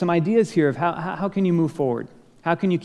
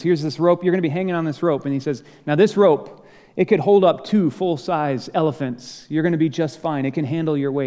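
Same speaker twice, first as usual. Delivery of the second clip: upbeat confident ropes instructor; 2 semitones higher, 3 dB louder than usual. Retold or imitated. Ropes instructor reassuring a nervous climber, upbeat.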